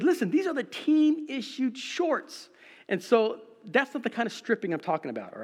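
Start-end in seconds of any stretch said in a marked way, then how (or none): 0.0-2.5 higher, slow indignant protest; protesting to police. Retold or imitated. Runners protesting to the campus police, mock indignation. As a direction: plead the obvious, mock-indignant. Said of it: "And we said".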